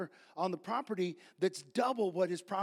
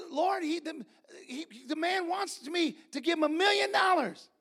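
indignant protest; 5 semitones higher than usual. Retold or imitated. Retold protest to God.

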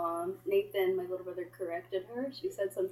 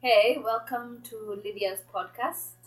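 slow, louder greeting in Kenyan-British accent; drawn-out podcast welcome, British-sounding Kenyan accent; 5 dB louder, slower than usual. Shown as a demonstration. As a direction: switch on your Kenyan accent, British-tinged. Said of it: "What would your accent sound like".

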